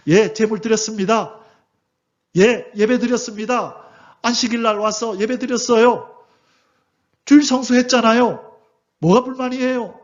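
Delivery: a hint of a sulky people protesting their offering; complaining Israelites. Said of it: "똑같은 말을 하고 있는 거예요". (살짝 투덜대는 백성 흉내)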